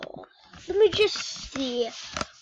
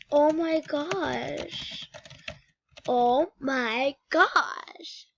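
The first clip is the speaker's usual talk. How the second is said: slow embarrassed groan; much slower than usual. Real, not acted. Embarrassed she's been caught recording.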